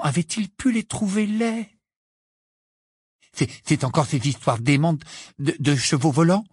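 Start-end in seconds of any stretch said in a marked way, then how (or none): 3.3-6.4 hésitante, qui bégaie; Ron, mal à l'aise, cherche ses mots; voix mal assurée. Acted. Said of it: "d'une voix mal assurée". (voix mal assurée)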